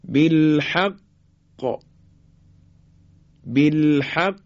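بالحق held shut on ق, then bounced open; qalqalah on doubled qaf. Shown as a demonstration. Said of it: "زمانی که مشدده و در آخر کلمه".

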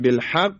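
بالحق with ق held shut, then firmly bounced; firm qalqalah. Shown as a demonstration. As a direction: pause on the doubled ق of بالحق, then pop it. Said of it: "تلفظ کردن به صورت محکم".

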